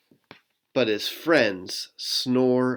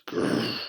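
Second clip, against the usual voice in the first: growl; 3 dB quieter than usual. Acted. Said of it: "Bear gnarls".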